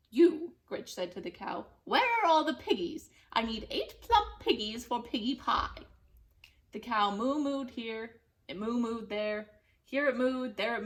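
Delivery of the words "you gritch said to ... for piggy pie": bossy witch. Acted. Witch demands of cow.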